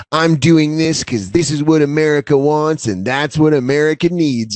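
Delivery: lightly put-on politician earnestness; a hint of insincere speechmaking; phony politician. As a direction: imitate a phony politician selling it. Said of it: "politician level phoniness where you can just tell".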